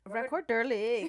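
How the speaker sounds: laughing Swedish accent on "Record Durlig". Shown as a demonstration. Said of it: "like, in a Swedish accent".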